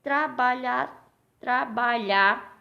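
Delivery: "trabalhar" slow, in stretched syllables. Shown as a demonstration. Teacher showing pupils where to split the word, syllable by syllable. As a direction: sound out "trabalhar" slowly, chunk by chunk. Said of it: "tem três formas de você separar".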